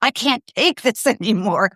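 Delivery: whispered exasperated stop it, then a laugh; mock worn-out parent at the end of her rope; fed-up parent. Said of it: "an authoritative parent who's sick of their kid whining".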